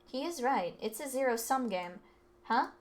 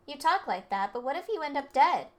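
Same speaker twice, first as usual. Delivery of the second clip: higher, louder challenge; challenging; 4 semitones higher, 6 dB louder than usual. Acted. Student challenging the rich kid's confidence, rising anger. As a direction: jab at his arrogance.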